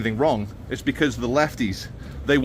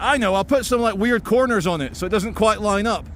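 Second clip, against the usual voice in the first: 1 architect; 6 semitones higher than usual. Retold or imitated. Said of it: "the architect's like".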